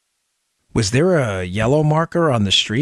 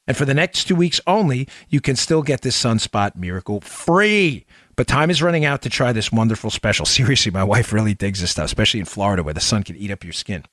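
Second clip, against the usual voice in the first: infomercial. Acted. Sponsor read.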